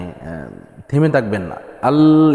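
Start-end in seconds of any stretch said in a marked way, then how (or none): 1.8-2.3 আল cut short and stopped; clipped wrong Al. Shown as a demonstration. Teacher showing the wrong stopped আল. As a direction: show the wrong stop on আল. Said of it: "আল এভাবে না".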